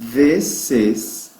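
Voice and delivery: "This is" with a short, clear i; English pronunciation. Shown as a demonstration. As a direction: say "This is" carefully, teacher model. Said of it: "como é a pronúncia dessa frase". ("This is" pronunciado com i curto)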